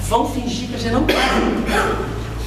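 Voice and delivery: slow, chuckling conspiratorial aside; laughing Chico quote. Retold or imitated. Chico to Arnaldo, amused, laughing through the words. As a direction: let a laugh through as you whisper the plan. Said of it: "falava o Chico pra ele".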